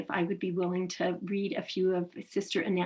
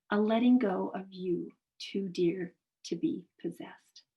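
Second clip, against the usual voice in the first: measured poetry recitation with pauses between phrases; poem reading. Acted. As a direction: read the poem aloud, phrase by phrase. Reads a poem aloud.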